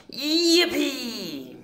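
high delighted yell; high joyful yippee. A narrator's reading. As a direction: whoop it out like a thrilled kid. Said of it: "the T's yelled out".

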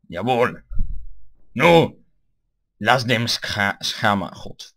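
loud put-on German orders; hammed-up German outburst; mock German. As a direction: shout in mock German, stumbling over the words. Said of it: "I think German is not the right language".

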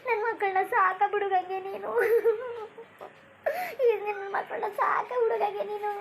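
crying, voice catching; weeping mother; tearful plea. Acted. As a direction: beg your sister through tears. Mother weeping, entrusting children.

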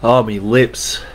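pained, drawn-out cry from chili burn; mouth on fire. Real, not acted. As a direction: gasp it out through burning lips. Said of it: "my lips are on fire".

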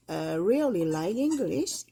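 really like English drawn out very slowly; slow example. Shown as a demonstration. Teacher reading improved example, very slow. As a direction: read it word by word. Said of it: "really 같은 걸 쓰면은".

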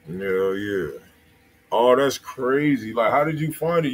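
ordinary talk, nothing marked

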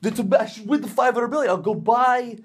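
high, silly voice of greedy ticket buyers; mock lottery dreamer. Vlogger mocking people chasing the jackpot, high silly voice.

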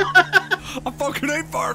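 half laughing through a mock hate line; laughing rant. Gamer laughing through his mock firefighter rant.

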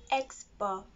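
Liberian English X bar, said as ice bus. Shown as a demonstration. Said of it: "Liberian say".

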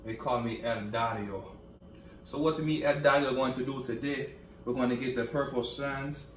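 badly faked French accent; El Dario. French hair maker explaining purple strands, mock French accent. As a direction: demonstrate in a put-on French salon accent. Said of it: "this is the accent for me French hair maker".

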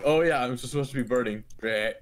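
hint of a groaning zombie. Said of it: "That was my impression of a zombie".

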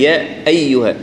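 يا أيها with the همزة pressed firmly; همزة أيها مضغوطة بوضوح; firm hamza. Shown as a demonstration. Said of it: "نحاول نضغط عليها".

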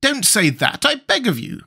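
high-voiced, tender-hearted pleading; Tin Woodman's plea. A narrator's reading. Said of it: "cried the Tin Woodman".

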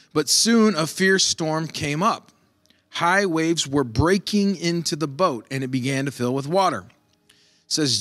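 steady, measured Bible reading; scripture reading. Acted. Pastor reading Mark aloud to his congregation, measured reading. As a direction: read the passage to the church.

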